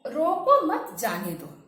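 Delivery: "रोको मत जाने दो" read as one phrase, no break after रोको or मत; no pause. Shown as a demonstration. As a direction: run "रोको मत जाने दो" together without a comma. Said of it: "यहाँ बीच में कोई भी हम विराम चिन्ह नहीं लगाए". ("रोको मत जाने दो" बिना विराम के, एक साथ)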